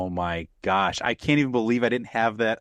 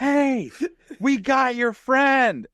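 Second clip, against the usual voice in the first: much higher, louder, slow call across the lake; friendly yell; 4 dB louder, much slower than usual. Retold or imitated. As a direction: shout it out cheerfully. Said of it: "And then they yell".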